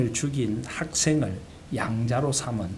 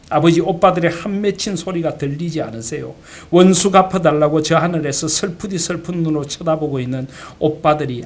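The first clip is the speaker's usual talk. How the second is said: louder, mildly acted outburst of a daughter; retold tearful protest; 3 semitones higher, 6 dB louder than usual. Daughter protesting her father's adopting the killer, retold tearful protest. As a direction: protest to your father, voice raised, without real sobbing. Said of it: "동희가 아버지에게 울면서 이렇게 말합니다".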